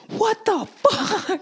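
high, slow, stretched-out what the fuck; mock outrage at the movie ending; outraged disbelief. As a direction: let the disbelief pull the pitch way up and slow. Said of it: "I was like".

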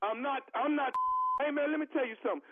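indignant prank caller. Pretend. Prank caller to clerk, fast and indignant. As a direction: rattle it off offended.

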